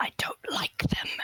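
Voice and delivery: soft, hushed, breathy whisper under the breath. Speaking in character as Arabella during a tense talk: whispering. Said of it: "Arabella just whispers".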